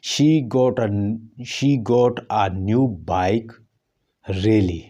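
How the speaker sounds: really said with a falling then rising tune; fall-rise surprise. Shown as a demonstration. Teacher demonstrating surprised fall-rise tone. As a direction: sound surprised, dip then lift on really. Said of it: "fall rise जो surprise को ज़ाहिर करता है".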